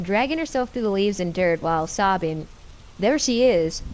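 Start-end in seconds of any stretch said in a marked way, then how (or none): 3.0-3.8 shouted. Acted. Masked hunter spots Shannon on the ground, raised shout. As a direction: call it out as you spot her. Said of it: "the distorted voice shouted".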